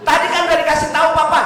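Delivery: put-on high, fast voice of a kid scolding his dad; impatient child. Child scolding father over the phone, high exasperated kid voice. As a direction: play the exasperated child who can't believe papa doesn't get it.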